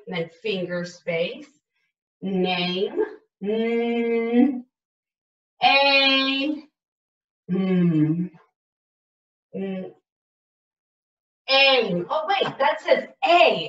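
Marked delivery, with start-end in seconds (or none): 2.2-12.1 "name" broken into separate sounds, m-A-m stretched; sounding out. Shown as a demonstration. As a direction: sound out "name" slowly, sound by sound, for a child. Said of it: "It's a long sound".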